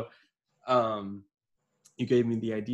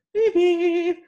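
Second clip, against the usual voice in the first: high, loud pump-up yell; practice yell; 9 dB louder than usual. Shown as a demonstration. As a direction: belt the dog's name out high and loud. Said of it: "I was practicing my yell".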